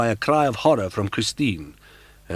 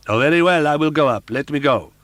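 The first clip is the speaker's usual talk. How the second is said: frightened giving in; 8 semitones higher, 9 dB louder, faster than usual. Acted. Frightened girl gives in.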